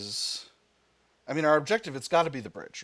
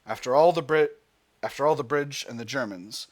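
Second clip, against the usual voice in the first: steady dramatic narration; story narration; 4 dB louder than usual. Acted. Player reading the landing scene, story narration.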